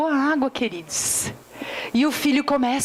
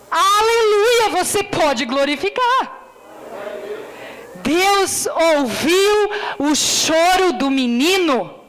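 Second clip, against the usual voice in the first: preaching at full force; 3 semitones higher, slower than usual. Acted. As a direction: cry out that God heard, drawn out. Preaching climax.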